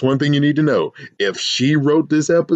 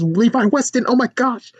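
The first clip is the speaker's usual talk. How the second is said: dawning fan excitement; 11 semitones higher than usual. Acted. Student realizing who the new kid is, excited. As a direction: pitch climbing into a mock gush. Student suddenly recognizing celebrity.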